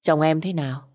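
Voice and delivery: a mild, hesitant asking; hesitant question. A narrator's reading. Boss asks her about her husband, hesitantly. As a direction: ask it gently, unsure how she'll take it. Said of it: "ngập ngừng lên tiếng".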